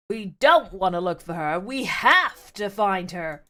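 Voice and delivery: heavy stress on "don't" and "have"; dramatic correction, slowing on "have to find her"; dramatic emphasis. Acted. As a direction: lean hard on "don't", then stretch "have". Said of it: "Dramatic pause".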